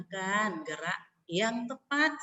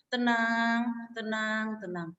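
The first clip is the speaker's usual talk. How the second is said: calm, quieting repetition; much slower than usual. Shown as a demonstration. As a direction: settle the class down gently.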